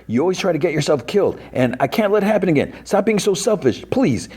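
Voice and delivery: very high, whiny mock plea; imitated sobbing plea. Dustin begging Steve not to die, high-pitched imitated distress. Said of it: "And he's, like, sobbing".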